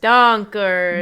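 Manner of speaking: loud mock-Swedish drawn-out word; thick Swedish accent. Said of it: "a thick Swedish accent".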